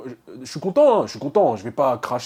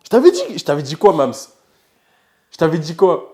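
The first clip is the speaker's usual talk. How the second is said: excited gloating; 3 semitones higher, 8 dB louder than usual. Real, not acted. Teasing mother after passing.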